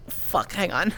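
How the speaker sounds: runny nose, sniffling through words; talking with a runny nose after crying; snotty crying. Real, not acted. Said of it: "my nose is running a lot".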